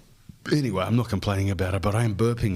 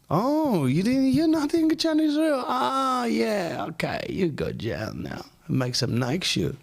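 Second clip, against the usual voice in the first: high, strained mock Russian accent, slower at the end; hammed-up Russian accent, voice pitched way up; 13 semitones higher, slower than usual. Podcaster mocks a future Russian censor in a hammed-up Russian accent. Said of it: "that's a Russian accent".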